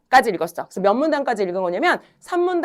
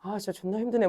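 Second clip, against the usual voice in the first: mock grumble; 3 semitones lower, 8 dB quieter than usual. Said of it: "니네는 무슨 생각하겠어".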